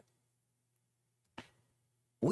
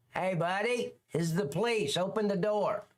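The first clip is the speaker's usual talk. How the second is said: mock bullhorn cop; 5 semitones higher than usual. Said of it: "and talk through a bullhorn".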